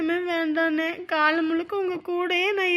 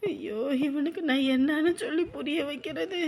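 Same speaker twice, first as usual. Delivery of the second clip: tearful lament. Acted. Sick mother crying.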